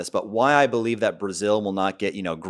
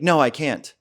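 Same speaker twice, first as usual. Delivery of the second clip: imitating date; 7 semitones higher, 3 dB louder, slower than usual. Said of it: "She's like".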